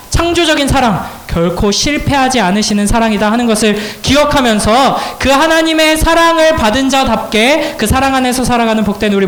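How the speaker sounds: emphatic sermon climax settling into a blessing; preacher's closing proclamation; fervent preaching. Real, not acted.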